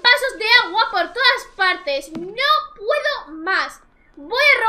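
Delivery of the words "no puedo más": slow, drawn-out exasperated sigh of words. Real, not acted. Gamer fed up with her Sims' water glasses, slowly drawn out. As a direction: stretch each word like you're at the end of your rope.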